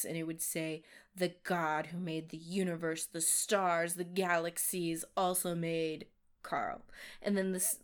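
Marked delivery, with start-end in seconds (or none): 1.1-6.9 big booming voice. Retold or imitated. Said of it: "this big booming voice".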